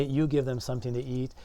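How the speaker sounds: quick quoted command led by "You"; emphatic YOU. Retold or imitated. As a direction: stress on "You" at the start. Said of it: "the you is emphatic".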